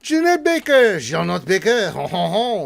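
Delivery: high, loud whooped name; comic high shout with jolly ho-hos; hyped greeting. Pretend. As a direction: holler the name in a silly put-on voice.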